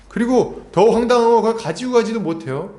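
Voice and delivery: usual speaking voice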